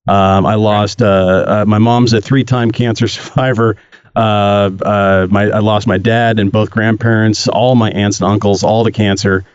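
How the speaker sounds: low, heartfelt and earnest; sincere. Real, not acted. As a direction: speak from the heart about family loss. Sincere talk about cancer.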